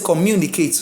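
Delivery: "communicate" said with the weight late, on NI; old wrong stress. Shown as a demonstration. Teacher owning an old habit, late-stressed communi-cate. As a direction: lean on the NI of "communicate". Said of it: "But before now, I used to say".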